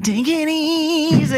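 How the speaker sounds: high, slow raspy whisper; creaky whisper. Retold or imitated. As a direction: breathe it out raspy and thin. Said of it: "And then he's like".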